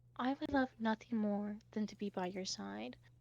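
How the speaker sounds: barely audible, very soft half-whisper. Describing a scene, the speaker acts out what he half-whispers during a hug: retelling a half-whisper. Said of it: "and he whispers like".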